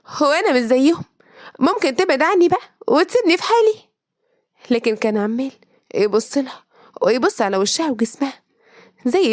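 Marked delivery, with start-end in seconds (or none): 0.1-3.7 higher, rising plea, pulling away; pleading to be let go. Acted. Girl pulling free, begging her captor, rising pitch. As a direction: beg him to leave her alone. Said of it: "حاولت تشد إيديها منه".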